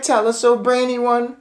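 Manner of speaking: high, loud fawning cry. Acted. Witches fawning loudly over their clever leader. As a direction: flatter her loudly like a crowd. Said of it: "they cried".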